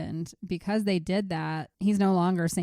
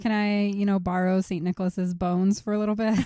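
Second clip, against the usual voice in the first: ordinary delivery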